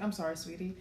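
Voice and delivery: imitating a dad suddenly dropping his anger; a brief softened apology, mid-rant; rage switched off. Dad pausing his screaming to apologize to sweetie, suddenly calm. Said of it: "his rage stopped for a second".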